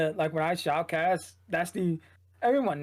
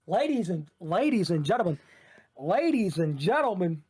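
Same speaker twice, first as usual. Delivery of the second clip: shoutcasting voice. Shown as a demonstration. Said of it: "in your shoutcasting voice".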